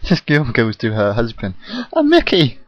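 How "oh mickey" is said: mock dramatic actress. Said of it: "he was, like, really dramatic".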